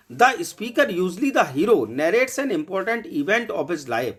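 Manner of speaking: slow, even dictation of a definition; teacher dictating a note to students. Shown as a demonstration. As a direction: read it out slowly so students can copy it.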